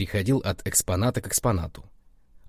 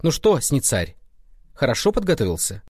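higher, mildly insolent taunting question; cheeky; 5 semitones higher than usual. Retold or imitated. Boy mimics rival guide questioning him, mildly cheeky. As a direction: imitate a rival's brazen needling. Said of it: "так нагло спрашивает".

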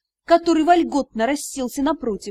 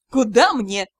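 sarcastic; 3 semitones lower than usual. Acted. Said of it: "не скрывая сарказма".

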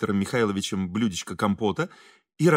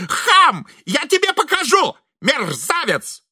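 shrill yelled insult, much higher; shouting; 13 semitones higher, 3 dB louder, slower than usual. A narrator's reading. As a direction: shout it after the procession. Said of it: "закричал Виктор Михайлович".

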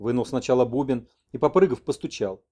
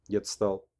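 usual speaking voice

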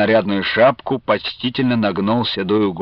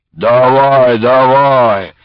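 urging; 6 dB louder, much slower than usual. A narrator's reading. Shaking him by the shoulder.

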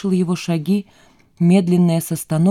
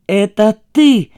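accusing shout, louder; 3 semitones higher, 7 dB louder, slower than usual. A narrator's reading. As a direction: yell it at him. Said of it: "закричала Лиза". (закричала, обвиняя)

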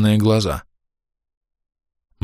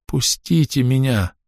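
higher, slow, half moaned; held woman pleading to be released; moaning plea; 6 semitones higher, slower than usual. A narrator's reading. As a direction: beg and moan at once. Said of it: "Не то попросила, не то простонала она".

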